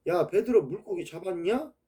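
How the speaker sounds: put-on folksy Chungcheong accent; Chungcheong dialect. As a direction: rural Chungcheong question. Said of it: "제 충청도 말로 한번 해".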